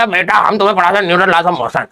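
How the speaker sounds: a hint of a doddering old sir teaching; old teacher voice. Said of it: "नाम से लगा कोई बुढ़ा बुढ़ा आ रहा होगा".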